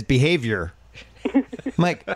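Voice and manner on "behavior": "behavior" with the final R fully sounded; fail at Boston, hitting the R in "behavior"; R kept in Boston accent. Retold or imitated. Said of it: "Then she says".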